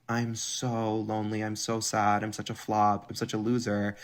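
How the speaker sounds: mope like a hangdog loser fishing for sympathy; mocking a man who plays pathetic; mock sad sack.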